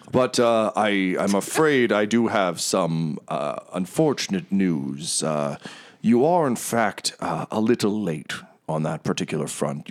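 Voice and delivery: smooth, grand, apologetic host; oil every word with charm; lightly voiced theatrical merchant; Mahadi, gregarious tiger. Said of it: "he's like, Oh".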